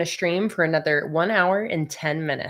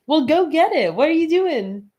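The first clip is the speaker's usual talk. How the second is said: urging cat; 8 semitones higher, 7 dB louder than usual. Real, not acted.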